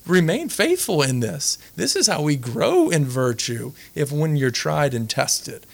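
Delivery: slow, measured reply, lifted in pitch at first; lightly voiced God. Priest voices God's answer to a doubter, lightly voiced, slow. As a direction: answer slowly and deliberately, as if teaching. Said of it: "He's like".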